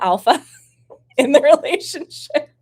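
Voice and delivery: high, giggly admission; laughing confession. Real, not acted. Streamer admitting her friend is the alpha, laughing. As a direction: laugh through the words, pitch jumping up.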